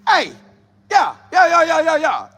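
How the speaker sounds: hollering yeah like a pumped-up quarterback; imitating Shedeur's hyped shouting. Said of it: "Shedeur looking like".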